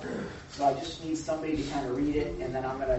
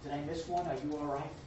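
gentle Jesus; 8 dB quieter than usual. Retold or imitated. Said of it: "he's like".

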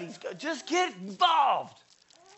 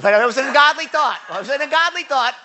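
emphatic correction; 5 semitones higher, 9 dB louder, faster than usual. Real, not acted. Correcting his joke emphatically.

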